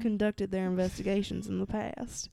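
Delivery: reading the letter in a lightly put-on country accent. Reading the Axeman letter aloud in a light country accent. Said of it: "should I read it in the country accent?".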